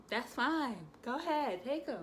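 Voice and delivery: forced brightness. Retold or imitated. Mom letting the nurse take her son, forcing calm. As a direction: pretend to be fine while it hurts.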